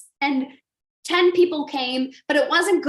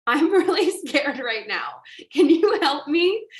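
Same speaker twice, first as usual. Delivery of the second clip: laughing nervous plea. Retold or imitated. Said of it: "'Cause I said to him".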